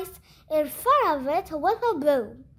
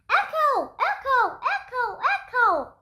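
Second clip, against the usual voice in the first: fading echo; 7 semitones higher than usual. Acted. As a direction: let it die away like an echo. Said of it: "yelled the gym".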